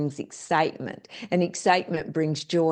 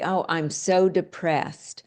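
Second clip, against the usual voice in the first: mock depressed whine; slower than usual. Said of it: "when people walk around and say".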